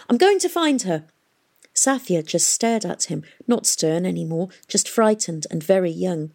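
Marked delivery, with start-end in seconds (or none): 0.1-1.0 determined cry. A narrator's reading. Tom's outburst continues.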